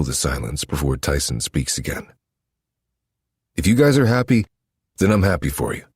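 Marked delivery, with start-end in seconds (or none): 3.5-5.8 brother voice. Acted.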